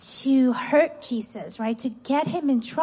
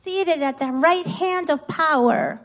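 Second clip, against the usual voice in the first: put-on higher call-and-response line for children; pitched-up teacher's prompt; verse to repeat; 4 semitones higher than usual. Shown as a demonstration. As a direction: lead the kids in repeating it. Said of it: "Okay, repeat after me".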